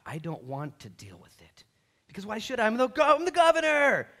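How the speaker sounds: high, loud, fed-up governor; loud Pilate. Acted. Pilate dumping Jesus on Herod, loud and exasperated. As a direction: bellow it as a put-upon ruler.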